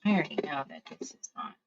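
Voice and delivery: quick, near-voiceless whisper to self; whispered aside. Real, not acted. Crafter doubting her own work, in a quick whispered aside. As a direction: whisper it fast under your breath. Muttered aside while working.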